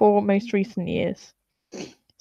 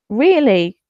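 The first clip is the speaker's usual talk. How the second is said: incredulous louder really; 5 dB louder than usual. Real, not acted. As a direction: scoff in disbelief. Incredulous rhetorical question.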